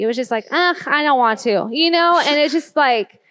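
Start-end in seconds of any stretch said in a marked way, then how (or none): 0.5-1.7 mock whine of a reluctant child; imitating an unwilling child; apathetic. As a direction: groan it out like a kid who can't be bothered. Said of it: "It was just apathy".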